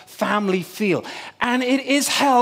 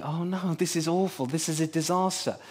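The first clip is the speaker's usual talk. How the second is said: panicked inner thought; 4 semitones lower, 7 dB quieter than usual. Retold or imitated. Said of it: "And I'm thinking".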